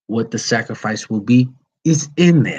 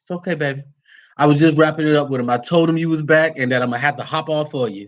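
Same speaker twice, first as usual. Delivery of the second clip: reassuring his wife; 5 semitones higher, faster than usual. Real, not acted. Speaks to wife arriving home.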